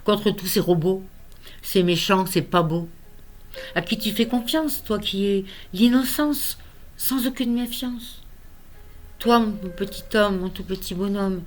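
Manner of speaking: measured poem reading with long pauses; unhurried poetic delivery; poem recitation. Acted. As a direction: recite it line by line, leaving space. Reads own poem aloud.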